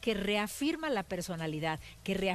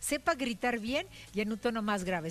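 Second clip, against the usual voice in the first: plain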